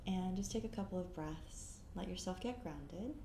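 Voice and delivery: calm meditation guide, long pauses between phrases; guided meditation. Acted. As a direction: guide them gently inward, leaving silence after each phrase.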